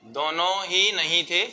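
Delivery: measured phrases with long pauses for copying; classroom dictation. Real, not acted. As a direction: dictate the answer piece by piece.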